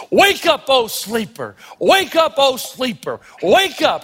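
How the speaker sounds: rhythmic preacher's wake-up call; call and repeat preaching. Retold or imitated. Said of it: "African-American tradition of repetition".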